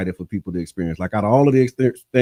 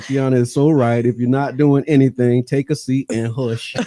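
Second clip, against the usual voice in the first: voicing Miss Teresa. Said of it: "I said it like that 'cause I can hear her".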